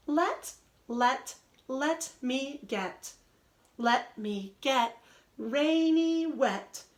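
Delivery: slow, rhythmic poem reading; reading a poem to children. Acted. Teacher reading the poem Let Me to her class, slow read-aloud. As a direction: read it out slowly for little ones to follow.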